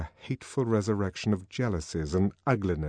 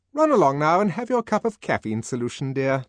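authoritative; 7 semitones higher, 7 dB louder than usual. Acted. Nurse to colleague, confidence restored.

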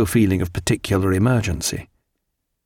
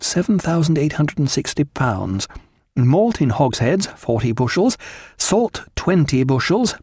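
reading a stores list aloud, slightly raised pitch; 4 semitones higher than usual. A narrator's reading. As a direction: read off each item, then its quantity. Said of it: "Sophie read out".

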